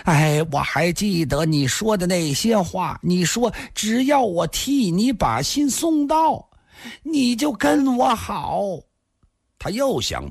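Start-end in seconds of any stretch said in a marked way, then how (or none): 0.0-8.6 put-on high, drawn-out drunken shout; loud shouting. A narrator's reading. Drunk youth insisting he is sober, shouting. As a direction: protest slowly in a high yell. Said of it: "少年大声喊道".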